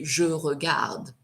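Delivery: slow "Je regarde", final e silent; intended present-tense pronunciation. Shown as a demonstration. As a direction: end "regarde" cleanly on the d. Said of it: "you meant to say".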